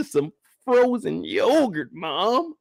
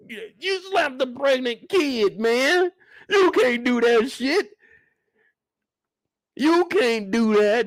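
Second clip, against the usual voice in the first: raised, high, slow protest; outraged scolding; 5 semitones higher than usual. Real, not acted. Streamer yelling at the mom who slapped her daughter. Scolding mother over slap.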